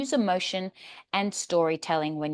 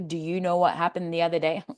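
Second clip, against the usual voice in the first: flat even robot read; no highs or lows at all; robot monotone; faster than usual. Shown as a demonstration. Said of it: "Now you sound like a robot".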